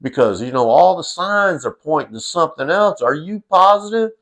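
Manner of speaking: put-on quizzical toddler. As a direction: stretch it out high like a puzzled kid. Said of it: "the quizzical look on his face was like".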